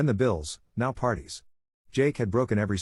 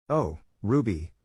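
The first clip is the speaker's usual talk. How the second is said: slow, drawn-out sighing Oh, Ruby; weary sigh; slower than usual. Retold or imitated. Mother disappointed in her daughter, sighing slowly. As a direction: let it out on a tired breath. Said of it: "Mom sighed".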